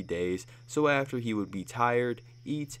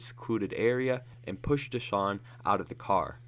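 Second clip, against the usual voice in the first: usual speaking voice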